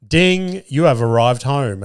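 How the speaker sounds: high sing-out ding, then announcement; lightly mimicked tracking-app alert; app notification. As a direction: imitate a phone alert chiming in. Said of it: "I just get, like".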